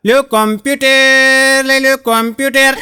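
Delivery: sing-song hawker yelling computers for sale; street hawker's call. Retold or imitated. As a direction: call out your wares like a cart seller. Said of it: "કેવી રાડ?".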